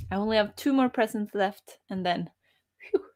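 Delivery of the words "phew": sipping soda while talking; words around a sip of soda; while sipping a drink. Real, not acted. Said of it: "I'm drinking Christmas soda".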